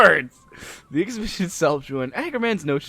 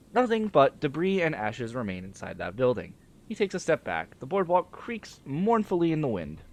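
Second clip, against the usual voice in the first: measured character reading, mostly lower; story read-aloud; 4 semitones lower, 4 dB quieter than usual. Acted. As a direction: read the dialogue aloud, dropping low at phrase ends. Reads game dialogue and narration.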